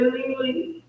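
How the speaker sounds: imitating a distraught cousin, high and drawn out; high, slow wail of a retold phone call; retold distressed cry. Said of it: "she was screaming and crying".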